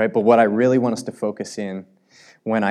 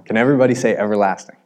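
louder, faster call to the crowd; singsong puppet show host; 5 dB louder, much faster than usual. Shown as a demonstration. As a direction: pump up the room like a kids' show host. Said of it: "let's try this one more time".

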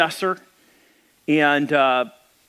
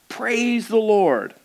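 put-on old lady praising; 6 semitones higher, much slower than usual. A narrator's reading. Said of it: "raise her arms to the sky and shout".

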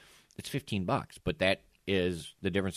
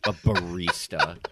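mocking; 6 dB louder, much slower than usual. Mocks the fancy job title.

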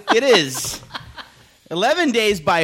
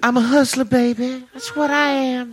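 hustler swagger; 8 semitones higher than usual. Pretend. Mocking persona voice.

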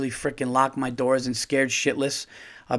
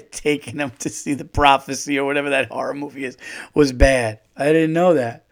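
mock innocent plea; 3 dB louder than usual. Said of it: "being like".

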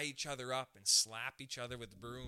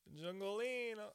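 high, drawn-out call; mock jungle call; 8 semitones higher, much slower than usual. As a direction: stretch it out in a put-on high voice.

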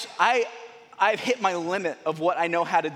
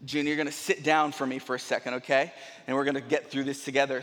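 reasoning calmly; 6 semitones lower, 3 dB quieter, faster than usual. Retold or imitated. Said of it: "I'm about to reason with the dog".

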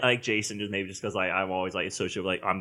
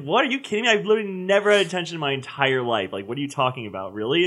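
outraged disbelief; 4 semitones higher, 5 dB louder than usual. Retold or imitated. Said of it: "I was like".

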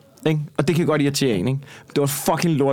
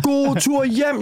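much higher, jeering imitation; retold heckle pitched way up; mock heckler call; 11 semitones higher, much slower than usual. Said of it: "Som råber".

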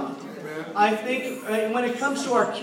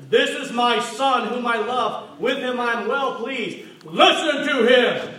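voice of God; 3 semitones higher, 6 dB louder, slower than usual. Acted. Voice from the cloud speaks.

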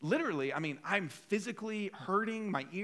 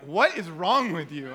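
slow, louder imitation of an appalled spouse; mock exasperated wife; 7 dB louder than usual. Wife scolding husband on the phone, mock exasperation. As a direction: lean on each word in disbelief.

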